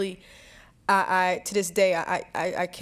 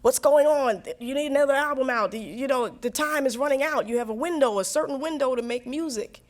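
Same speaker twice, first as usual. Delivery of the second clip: pushy people around her; 5 semitones higher than usual. Retold or imitated. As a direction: press her like an impatient manager. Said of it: "everybody in my world thinks I'm crazy".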